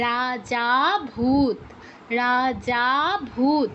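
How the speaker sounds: teacher repeating the example word slowly; pluta demo. Shown as a demonstration. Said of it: "রা আর ভূ থেকেও বেশি সময় নিয়ে".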